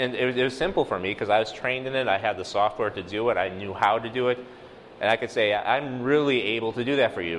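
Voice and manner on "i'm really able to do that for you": "really" stressed for extra emphasis; emphatic. Shown as a demonstration. Geographer telling the pastor he can map the neighborhood, emphatic. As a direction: put the weight on "really". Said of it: "putting an extra emphasis on it".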